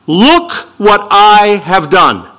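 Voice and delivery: slow, boastful "Look" leading the phrase; preacher voicing a proud Eve, drawn out; mild mock pride, slow and stressed on "Look". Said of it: "proud and arrogant".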